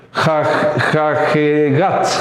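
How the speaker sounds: "jajegat" drawn out slowly, piece by piece; slow sounding-out. Shown as a demonstration. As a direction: sound out "jajegat" haltingly, stretching it. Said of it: "ahí pronunciamos".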